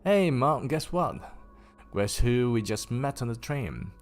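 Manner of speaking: put-on high, eager child calling to mum; excited girl. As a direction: burst out with the news to mum. Excited child calls to mother.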